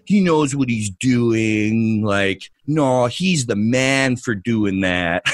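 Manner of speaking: slow, drawn-out mocking fanboy voice; lightly put-on asshole voice. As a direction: drag it out like a dopey defender. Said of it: "that's my asshole voice".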